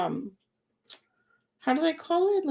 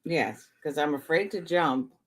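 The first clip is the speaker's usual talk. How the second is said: voicing the cat; 8 semitones lower, 4 dB quieter than usual. Speaks for the frustrated cat.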